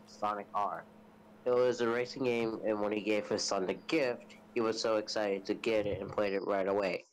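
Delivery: evenly paced storytelling read; story narration. A narrator's reading. Telling friends a scary story, in narration voice.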